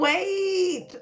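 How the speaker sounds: high, loud, stretched-out call; excited cry. Real, not acted. Reacting to a request for a Caucasian voice, excited cry. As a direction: draw it out in excited disbelief.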